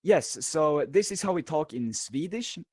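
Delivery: a light Swedish accent on English, barely put on. Shown as a demonstration. Swedish guest shows the host his old Swedish accent, lightly. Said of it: "here's how it sounds".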